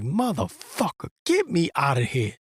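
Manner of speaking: exasperated inner groan. Retold or imitated. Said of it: "I'm just like".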